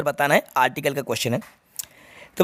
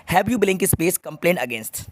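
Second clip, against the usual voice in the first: slow reading; much slower than usual. Shown as a demonstration. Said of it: "reads the question aloud slowly".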